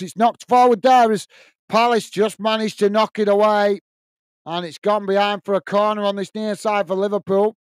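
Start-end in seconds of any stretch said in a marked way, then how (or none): 0.0-6.2 excited commentary. Real, not acted. Streamer calling the Palace clearance live, excited shout. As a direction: call the clearance with rising excitement. Live play-by-play of a goalmouth scramble.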